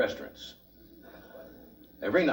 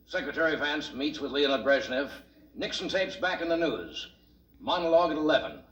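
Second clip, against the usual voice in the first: higher-pitched, punchy headline read; news headline teaser; 4 semitones higher than usual. Acted. Host teases tonight's headlines to the audience, mock newscast. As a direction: read it like a late-news promo.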